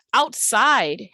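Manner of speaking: "Outside" stretched on both halves; two long syllables. Shown as a demonstration. Teacher counting syllables for students, both parts of "Outside" drawn out. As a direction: hold "out" and "side" equally long in "Outside". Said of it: "long syllables".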